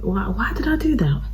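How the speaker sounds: hushed, breathy why did I; whispered self-reproach. Real, not acted. Vlogger scolding herself over ruined makeup, whispering. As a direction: whisper it to yourself in dismay.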